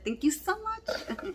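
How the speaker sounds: high, slow thanks through a laugh. Real, not acted. Thanking her friend for the gift, laughing. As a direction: giggle out the thank you.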